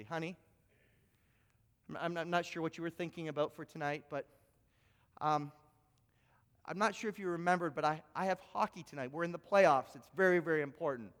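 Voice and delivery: soft, hesitant, quick; timid hushed plea. Acted. Husband nervously asks wife about hockey, hushed and hesitant. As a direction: tiptoe around it nervously.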